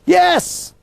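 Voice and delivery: high excited cheer. Real, not acted. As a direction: celebrate the right answer. Student answers riddle correctly.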